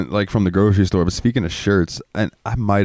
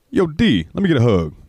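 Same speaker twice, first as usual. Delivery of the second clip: friendly manager; 8 semitones higher than usual. Retold or imitated. Imitating manager Tommy again.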